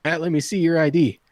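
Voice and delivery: lightly voiced, matter-of-fact demand; a hint of a bartender carding someone; bartender checking ID. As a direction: ask for ID, mildly firm. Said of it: "The bartender goes".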